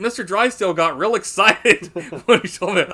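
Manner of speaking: mock innocent line. Quoting the stud farm scene, lightly voiced naive character. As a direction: play it dim and guileless. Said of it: "He's like".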